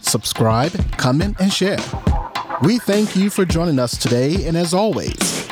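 polished announcer sign-off over music; podcast outro. Acted. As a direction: deliver a measured, punchy show closer. Reads the show's outro over music.

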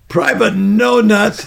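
slow, loud drawn-out name call; mocking sergeant. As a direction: stretch out the insult slowly.

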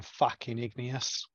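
slow, half-hearted Australian drawl, barely there; bad Australian accent. Player's character grumbles passing the mountain rock, mock Australian accent. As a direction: mutter it in a poor stab at an Australian accent. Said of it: "That was a terrible Australian accent".

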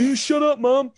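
put-on high, loud teenage yell; son yelling back. Son yells back at his mother, loud and high. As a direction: yell back at your mum. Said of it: "all sort of yelling".

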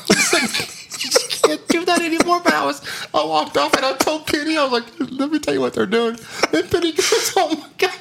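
high-pitched, giggly storytelling; laughing while talking. Real, not acted. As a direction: struggle to get the story out through laughter. Cracking up while telling the story.

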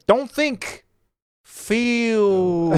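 high, intense Bruce Lee voice; Bruce Lee impression. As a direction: go full Bruce Lee, deadly serious. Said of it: "when you're doing Bruce Lee".

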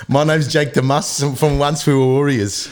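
shaky attempt at a Kiwi accent; New Zealand accent. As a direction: lightly imitate a New Zealander. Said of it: "New Zealand".

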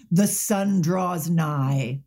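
slow, lightly solemn vampire line; quoting own film line. Retold or imitated. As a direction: draw it out like a mild gothic proclamation. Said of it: "my line is".

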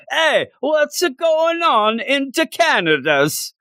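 high, slow, hammed-up Canadian accent; cartoon Canadian, drawn out; mock Canadian accent. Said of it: "That's how I think everybody in Canada talks".

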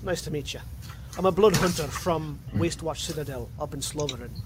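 blood hunter introducing himself in Scottish; Scottish accent. Acted. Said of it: "going from Scottish to Russian".

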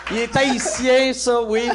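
loud, high pretend outrage; mock shocked. Co-host objecting to an Italian God, mock shocked. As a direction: protest with hammed-up indignation, half laughing. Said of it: "ça, ça me choque".

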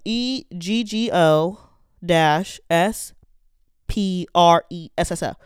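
letters spelled out slowly one by one; slow spelling. Shown as a demonstration. Spelling the drink name slowly for viewers. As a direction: spell it out slowly so viewers can follow along. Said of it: "I'm gonna say it slowly".

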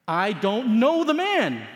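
a slow forceful oath; sworn denial. Acted. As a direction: deny it like swearing an oath. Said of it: "this time with an oath".

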